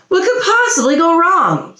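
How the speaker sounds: chuckling lightly; laughing. A narrator's reading. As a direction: laugh through the question. Pongo laughs it off.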